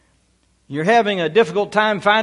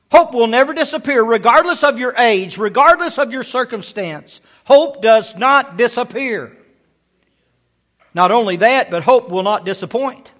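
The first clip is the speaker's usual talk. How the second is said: fervent preaching; 3 semitones higher, 4 dB louder than usual. Real, not acted. Preaching climax.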